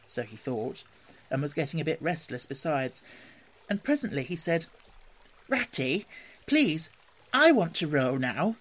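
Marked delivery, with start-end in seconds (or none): 5.5-8.6 wheedling plea, pitched up at the start; Mole pleading. A narrator's reading. Restless Mole asks Rat for a turn rowing, pleading. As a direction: coax like a restless little creature.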